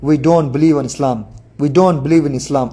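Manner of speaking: slow, gentle mock of a child's sweet refusal; retold sweetly. Son at home telling parents calmly, slow sweet refusal. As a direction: drag it out slow and sweet, like a polite kid. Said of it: "وہ بڑے پیار سے کہتے ہیں".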